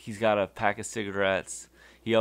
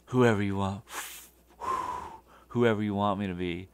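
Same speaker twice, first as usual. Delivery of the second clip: cocky; faster than usual. Retold or imitated. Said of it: "all cocky and trying to be a badass".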